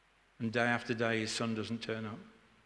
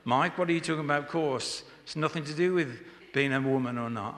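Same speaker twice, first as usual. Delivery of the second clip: mock indignant protest, raised and louder; imitated moaning; 2 semitones higher, 4 dB louder than usual. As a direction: imitate an audience member's grumbled objection. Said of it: "They moaned".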